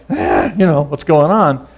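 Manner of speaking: a touch of exasperation, voice lifted; mildly exasperated plea; frustrated complaint. Retold or imitated. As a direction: throw up your hands at God. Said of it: "and it's like".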